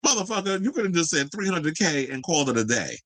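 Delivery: high-pitched exasperated outburst. Real, not acted. Host answering the photographer's cute email, exasperated. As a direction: start high in exasperation, easing down by the end.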